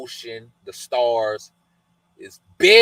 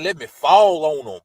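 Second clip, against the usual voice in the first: louder, a touch higher, itching to strike; eager, louder mock threat; stars' eager threat; 3 semitones higher, 7 dB louder than usual. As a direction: play the stars begging to attack. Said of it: "The stars said".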